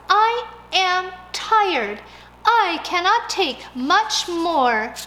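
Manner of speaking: high, very slow, tired pleading; a sleepless mouse begging, slowly; weary plea. Acted. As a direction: drag it out, worn out.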